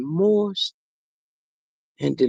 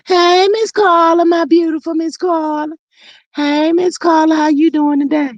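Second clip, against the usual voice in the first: sing-song greeting; 5 semitones higher than usual. Real, not acted. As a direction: stretch out the greeting sweetly. Greeting viewer Carla.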